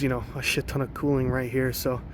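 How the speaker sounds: breathless, winded talking; out of breath. Real, not acted. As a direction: talk between short breaths. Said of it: "I don't know why I'm out of breath".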